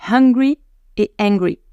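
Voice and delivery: breathed H on "Hungry", none on "angry"; careful contrast of "Hungry" and "angry"; H versus no H. Shown as a demonstration. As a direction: set aspirated "Hungry" against vowel-first "angry". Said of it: "pas totalement les mêmes sons".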